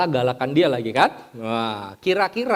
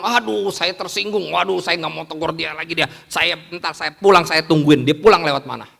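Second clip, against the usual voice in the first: offended grumbling; 2 semitones higher, 4 dB louder than usual. Acted. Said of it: "Atau saya bilang".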